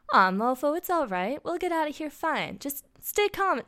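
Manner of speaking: high-pitched soothing character voice; acted gentle reassurance; reassuring. A narrator's reading. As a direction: comfort an upset friend, high and drawn-out. Character comforting a crying friend.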